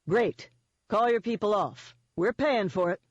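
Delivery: a touch of smug command; mildly gloating. Acted. Eden calling off Denon's people, mildly gloating.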